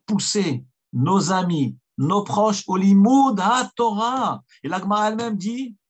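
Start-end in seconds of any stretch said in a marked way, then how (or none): 0.1-4.4 emphatic exhortation. Real, not acted. Preacher urging the congregation to study.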